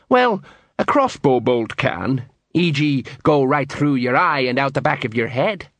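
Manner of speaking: doubtful Colon. Acted.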